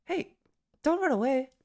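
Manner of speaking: sharp and loud, pitch high; angry snap. Acted. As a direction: bark it after him angrily. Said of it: "I snapped".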